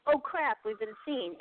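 sudden high-pitched mock alarm, then a drop; high squeak of surprise falling away; startled Bigfoot thought. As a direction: voice the creatures' panic at being caught. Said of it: "they, of course, like".

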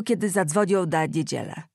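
zadzwonią said with a stuffed nose, the n sounds close to d; blocked nose. Acted. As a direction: talk through a badly blocked nose. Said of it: "Dobrze zrozumieli jego niewyraźną mowę". (mowa przez zatkany nos, niewyraźnie)

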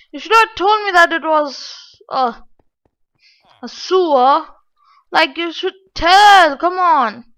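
real exasperation with a touch of a sob; whiny frustration. Real, not acted. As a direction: whine like you were betrayed by a friend. Complaining about trolling map.

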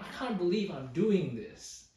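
imitating a mildly exasperated writer. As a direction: voice mild disbelief at your own behaviour. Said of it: "Can you hear how exasperated he is?".

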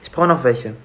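whispered aside. Real, not acted. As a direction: whisper it secretly. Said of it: "Warum flüsterst du?".

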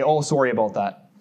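hammed-up Eastern Canadian accent; horrible Eastern Canada accent. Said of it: "my horrible Eastern Canada accent".

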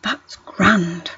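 slow, drawn-out cartoon postman impression; Postman Pat. Testing whether a cartoon postman said it, slow impression. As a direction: stretch it out like a children's TV postman. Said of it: "Postman Pat used to say".

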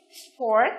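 "sport" set apart with a rising tune; model pronunciation. Shown as a demonstration. Teacher goes on to C, modelling "sport" with "or". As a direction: pronounce "sport" carefully with an "or" vowel. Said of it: "phát âm là".

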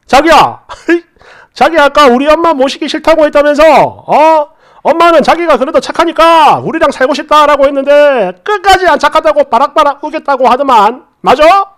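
lightly voiced husband, a little livelier; amused husband, teasing. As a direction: tease your wife with a playful accusation.

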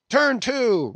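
very high, loud roar; captain roaring at Steelkilt; roaring order. A narrator's reading. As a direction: bellow the final order. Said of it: "roared the captain".

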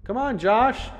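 loud, high urging shout; father's insistent distant holler; yelling. A narrator's reading. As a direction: yell for him to hurry, pitch rising. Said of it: "Dad kept yelling".

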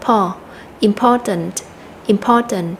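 "important" with the stress on its second syllable, "po". Shown as a demonstration. Teacher shows students the word's stressed syllable, second-syllable stress. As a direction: model "important" leaning on the middle syllable "po". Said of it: "chúng ta sẽ nhấn mạnh vào âm thứ hai".

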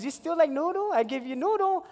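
high pidgin question with a rise; vendor lady. Retold or imitated. Vendor lady offering him noodles, high and sweet. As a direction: ask it sweetly like an auntie.

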